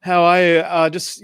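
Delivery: high, gushing eager greeting; starstruck, over-keen hello; intense fan. Retold or imitated. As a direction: overeager fan rushing up to his idol. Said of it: "I was, like, really intense".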